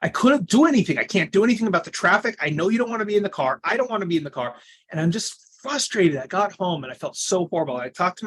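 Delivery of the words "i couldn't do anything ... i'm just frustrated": exasperated venting. Retold or imitated. Retelling frustration in car.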